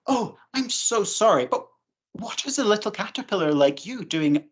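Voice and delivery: a hint of a chatty orangutan apologizing; Ollie the orangutan. Orangutan Ollie apologizes to the caterpillar, lightly voiced and quick. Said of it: "said Ollie".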